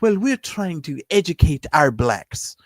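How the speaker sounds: slow, lightly put-on African accent; a hint of an African accent, retelling her slowly. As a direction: mimic the South African girl's accent without much change. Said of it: "in that full African accent".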